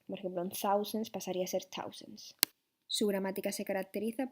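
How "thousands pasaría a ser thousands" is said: first thousands with th, then thousands as tausens; Irish thousands said tausens. Shown as a demonstration. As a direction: contrast thousands th then hard t. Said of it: "la T H se pronuncia como una T".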